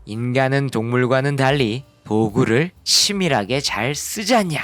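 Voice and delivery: scolding textbook. Pretend. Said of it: "교과서는 이렇게 답변하는 식입니다".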